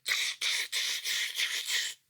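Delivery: unvoiced tsh-tsh of mocking monkeys; monkey chatter. Monkeys stamping back with a breathy tsh tsh. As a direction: hiss it back like cheeky monkeys. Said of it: "the monkeys ... said".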